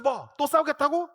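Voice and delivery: high, loud scolding question. Retold or imitated. Mother snapping at her daughter, high and loud. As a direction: scold the kid sharply.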